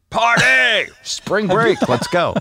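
excited party shout. Pretend. Acting carefree thirty-year-old self.

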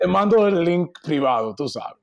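halting, casual Dominican accent; broken Dominican Spanish. Shown as a demonstration. Answering an interviewer about getting married, Dominican accent. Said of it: "we can do my broken Dominican Spanish".

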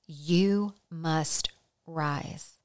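soft and slow, let it sink in; slow, quiet repeated call. Acted. Preacher to listeners, soft slow repeat.

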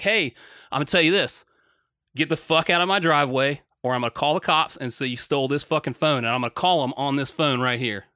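replaying the driveway standoff with heat; retold telling-off. To the driver in the driveway, mock angry telling-off.

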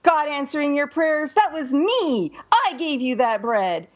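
mocking laugh, then a lightly gloating sneer; gloating mockery. Rich man mocking the poor woman, lightly gloating. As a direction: rub it in with a smug laugh. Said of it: "he laughs at her and he says".

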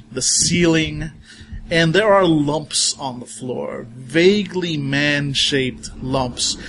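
slow, hushed horror description; creepy scene narration. Acted. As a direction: draw out each gruesome detail. GM describes horror room slowly.

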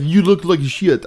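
slow, badly done mock of the stranger; a deliberately bad impression; horrible imitation. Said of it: "I do a horrible, like, act".

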